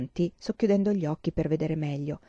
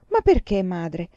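put-on pleading little girl; 3 dB louder, slower than usual. Child pressing her mother. (bambina insistente, voce alta)

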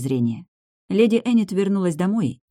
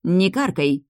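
curt; 3 semitones higher, slower than usual. Acted. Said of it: "отрезала ходящая по мирам".

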